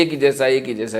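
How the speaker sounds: same flat pitch on each एक ही जैसा; monotone demo. Shown as a demonstration. Preacher shows listeners a monotonous drone. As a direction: drone एक ही जैसा on one note. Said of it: "monotonous नहीं होना चाहिए".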